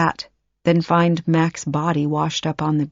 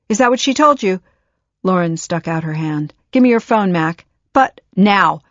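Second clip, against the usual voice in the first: angry demand; 2 semitones higher, 4 dB louder than usual. Acted. Mother demands the phone.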